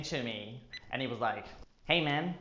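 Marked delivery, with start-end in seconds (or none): 1.9-2.4 lightly voiced impression, slightly raised; casual greeting, lightly imitated; a hint of a famous physicist; Neil deGrasse Tyson. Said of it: "That, that's how he talks".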